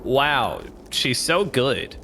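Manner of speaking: slow, mock-impressed praise, lightly voiced; a hint of a pop star gushing over a bad keyboard. A pop star from Camp Rock, impressed by fake playing, slow mock awe. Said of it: "That's my impression of a pop star".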